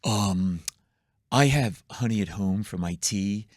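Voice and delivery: fussy, offended little man; whiny complainer. Retold or imitated. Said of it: "a guy goes like this".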